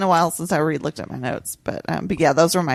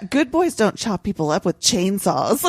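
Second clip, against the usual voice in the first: put-on old lady voice; slower than usual. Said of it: "what she said".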